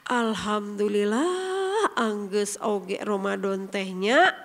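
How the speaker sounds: slow, low, relieved drawl; mock relief, glad it is done; relieved sigh. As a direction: sigh out thanks that fasting is over. Weak believer relieved Ramadan ended.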